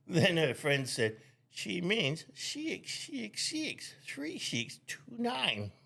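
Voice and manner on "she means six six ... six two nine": put-on very high, softer caricatured Asian accent; mock Asian accent. Friend correcting a phone number, mock Asian accent. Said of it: "your Asian accent was so amazing".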